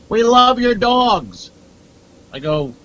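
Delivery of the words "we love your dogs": high, slow, gushing fan voice. Retold or imitated. Comic imitating a fan after a show, high and slow. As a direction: play the adoring audience member. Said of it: "and somebody goes".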